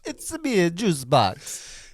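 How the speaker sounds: high, slow cartoonish voice; silly character voice. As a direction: squeak out the name like a toy juice box. Character name intro, silly voice.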